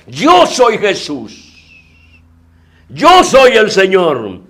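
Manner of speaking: slow, weighty declaration; Jesus declaring himself. Acted. Jesus names himself to the apostles, slow and weighty. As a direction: land YO slowly and firmly.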